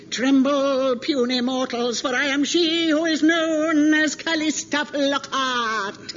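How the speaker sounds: slow, booming giant proclaiming; a hint of a menacing frost giant. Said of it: "you can do any name in the voice".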